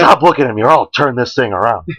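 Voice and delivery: hammed-up scolding parent; mock angry parent. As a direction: threaten the kids like a fed-up parent. Parent scolding kids in car.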